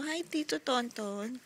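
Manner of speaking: soft, slow greeting; speaking for baby. Pretend. Parent coaching baby to greet uncle, baby-talk. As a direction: draw out the name gently for baby. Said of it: "Sabi mo".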